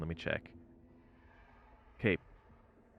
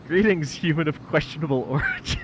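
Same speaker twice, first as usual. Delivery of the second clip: put-on old speech synthesizer; 6 semitones higher, 7 dB louder than usual. Chat message read by TTS.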